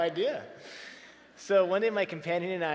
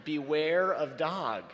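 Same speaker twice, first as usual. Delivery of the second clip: slow sign reading; 3 dB louder, much slower than usual. Shown as a demonstration. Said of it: "the sign was very clear".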